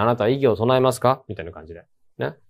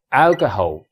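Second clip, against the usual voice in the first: alcoholのaを強く下げて; 頭のalを強く; 先頭に強勢; much slower than usual. Shown as a demonstration. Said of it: "戦闘ですよね". (第一音節に強勢)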